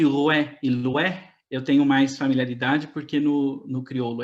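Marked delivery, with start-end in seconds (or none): 0.0-1.3 very slow "Roé e Loé" with open "wé"; "Roé e Loé" drawn out, oé glide; old French pronunciation. Shown as a demonstration. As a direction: stretch "Roé" and "Loé" as rwé, lwé. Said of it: "com essa pronúncia aqui".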